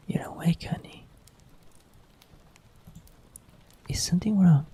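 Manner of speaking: tender partner whispering at night; hushed bedtime partner; whispering girlfriend roleplay. Acted. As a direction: coax a sleepy loved one in a whisper.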